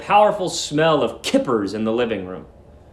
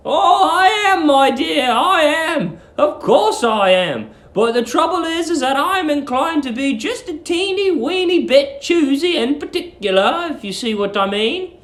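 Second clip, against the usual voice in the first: sweet landlady; 11 semitones higher than usual. Acted. Landlady luring the young lodger, high sugary coo. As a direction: coo at him like a doting landlady.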